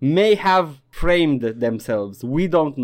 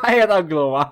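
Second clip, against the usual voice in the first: repeats Aia era gluma through a laugh, louder; 4 semitones higher, 4 dB louder than usual. Real, not acted. Host repeats the joke to his cohost, laughing. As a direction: laugh out the punchline as you say it again.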